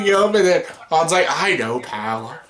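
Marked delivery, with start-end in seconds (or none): 1.3-2.4 tender Han. Retold or imitated. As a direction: soothe your old friend gently. Han comforting Chewie again.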